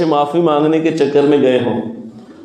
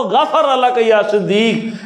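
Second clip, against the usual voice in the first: slow recitation; 3 semitones higher, much slower than usual. Acted. Reciting the Prophet's Arabic phrase.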